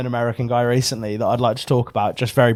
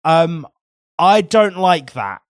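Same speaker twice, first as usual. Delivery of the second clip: firm refusal; 5 dB louder, much slower than usual. Retold or imitated. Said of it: "I had to be like".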